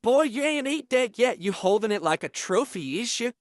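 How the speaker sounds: a light impression of a taunting inmate; imitating Fleece. Inmate teasing about the honey bun.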